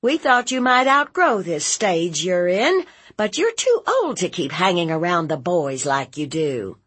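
high, quick lecture; concerned, insistent aunt. Acted. Aunt telling nephew she worries, insistent and quick. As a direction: press the worry on him urgently.

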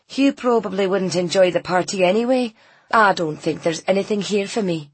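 lightly voiced village customer; a hint of dismissive character voice; resigned local woman. Voices Leslie declining.

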